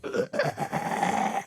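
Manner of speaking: quiet unvoiced creature rattle; soft croaking monster noise; imitated Locust noise. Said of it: "you hear the locust, like".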